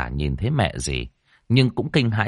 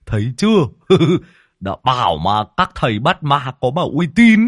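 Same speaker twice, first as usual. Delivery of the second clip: loud, high laughing brag; laughing boast; 6 semitones higher, 5 dB louder than usual. A narrator's reading. Lâm Sẹo nudging the host, laughing and boasting loudly. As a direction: crow about it through laughter.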